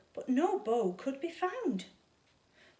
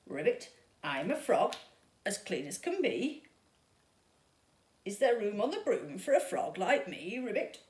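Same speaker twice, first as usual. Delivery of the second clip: croaky frog; 2 semitones lower than usual. Acted. Frog asks witch for a ride, lightly croaking. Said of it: "then said with a croak".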